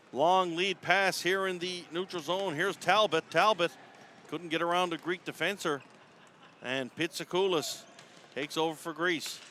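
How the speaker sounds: brisk hockey call, names punched as the ball moves; arena commentator calling the rush; live play-by-play. Real, not acted. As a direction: call the action as it happens.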